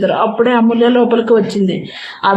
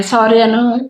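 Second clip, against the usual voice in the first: pleading. Acted. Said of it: "దీనంగా అడిగాడు".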